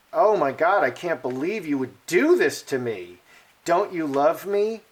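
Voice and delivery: hamming up a wounded wife begging for sympathy; lightly voiced pleading victim; playing the victim. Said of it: "Like that".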